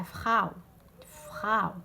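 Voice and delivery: فخاو ending in an "ow" sound; au diphthong. Shown as a demonstration. Teacher models the diphthong, فخاو with clear au. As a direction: say فخاو with a gliding into u, as in Frau. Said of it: "هدايا او تاع فخاو".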